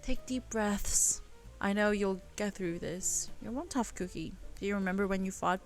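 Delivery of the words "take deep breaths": slow, calming instruction; soothing slow. Acted. James calming the crying Elle, soothing. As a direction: ease her breathing.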